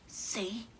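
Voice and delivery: hushed told-you-so; whispered. Acted. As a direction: whisper it to your brother. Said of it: "she whispered".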